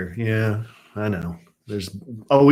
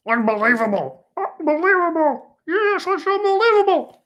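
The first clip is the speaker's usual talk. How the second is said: mock disbelief. Real, not acted. Repeats word rising each time.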